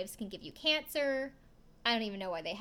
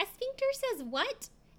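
put-on very high, squeaky eight-year-old kid voice; 13 semitones higher than usual. Retelling a TV moment, the speaker quotes the oldest boy asking Karen: Bradford's high squeaky kid voice. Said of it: "very high, squeaky eight-year-old voice".

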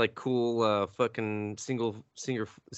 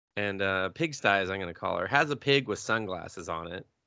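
usual speaking voice

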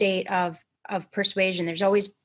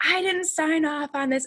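mock high-pitched screaming; 8 semitones higher than usual. Recounting a random call where someone screamed at them, retelling a caller screaming. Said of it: "someone just like screaming at us".

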